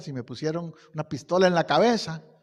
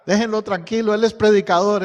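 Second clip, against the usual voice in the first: firm command; 3 semitones higher, 8 dB louder than usual. Retold or imitated. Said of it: "le dijo a los demás".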